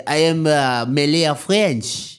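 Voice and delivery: put-on halting, improvised French accent; half-baked French-Malay accent; bad French accent. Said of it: "double down on that accent".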